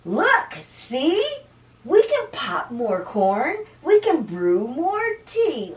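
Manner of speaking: high, loud little mouse voice; high squeak easing into eager reassurance; squeaky mouse. A narrator's reading. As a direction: squeak it out to comfort a friend. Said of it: "Mouse squeaks".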